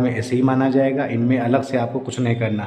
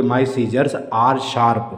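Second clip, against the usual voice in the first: slow, careful English example; slow teaching demo; slow model sentence; much slower than usual. Shown as a demonstration. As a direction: spell the sentence out slowly for the class. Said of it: "आप बोलोगे मेरी कैंची धारदार है".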